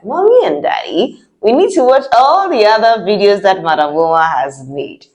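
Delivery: lightly voiced child pleading with parents; child asking parents. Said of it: "tell mommy and daddy that".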